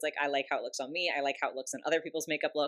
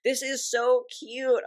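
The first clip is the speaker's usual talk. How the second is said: high, drawn-out gushing squeal; excited squeal; 7 semitones higher, 4 dB louder, slower than usual. Real, not acted. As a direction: swoon over something adorable. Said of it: "Okay, okay, breathe, breathe".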